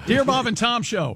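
formal letter-reading voice; announcing the letter's opening. Shown as a demonstration. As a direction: read it out like a listener letter. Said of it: "What is this?".

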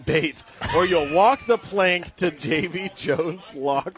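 slow, hammed-up pirate read. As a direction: growl it like a pirate captain. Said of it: "It, it says in a pirate voice".

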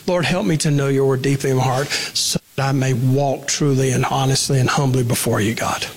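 low, even prayer voice; sincere low-pitched prayer to God. Shown as a demonstration. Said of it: "Turn the passage into a prayer".

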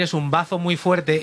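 "bazo" said for "vaso", as the comic said it; quoting a mistake. Retold or imitated. Teasing the guest comic about his wording, slow deadpan quote. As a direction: repeat "Es un bazo muy fuerte" slowly, deadpan. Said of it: "acabas de decir".

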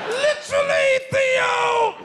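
very high, stretched-out mock scolding; Bill Cosby. Comedian calling out to Theo, sitcom dad impression. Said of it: "sounds like Bill Cosby a little bit".

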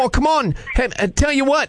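put-on Australian accent. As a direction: fake Aussie prank caller. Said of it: "using my Australian accent".

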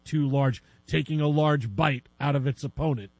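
low-pitched sportscaster calling the action; mock play-by-play. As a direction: call it like a deadpan game announcer. Mock play-by-play of animal fight.

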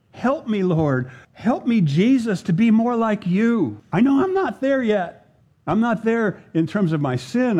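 a preacher modelling a prayer of repentance; pleading prayer. Acted. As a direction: pray it out as a heartfelt plea. Preacher voices a sample prayer.

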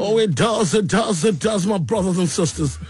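playful church-preacher cadence; mock preacher. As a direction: intone it like a congregation preacher, lightly hammed up. Mock preacher answering co-host.

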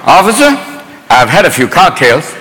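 put-on a cheerful drunk confessing to a cop; drunk driver. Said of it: "get out of the car going".

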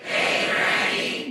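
slow, breathless whisper of "Hey, granny". Shown as a demonstration. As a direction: hiss "Hey, granny" slowly under the breath.

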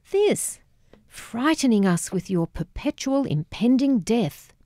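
sharp teenage mockery, pitch spiking; mocking. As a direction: taunt him with cruel sarcasm. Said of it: "mocking cruelty".

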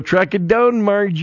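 put-on high, sing-out Fargo accent. Sportscaster demos his play-by-play, hammed-up Fargo accent. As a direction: mimic the movie's Fargo twang. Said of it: "you gotta talk in that accent".

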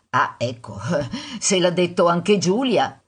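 amused mother's mock concession; gently ironic. Mother humouring daughter's proof, gently ironic.

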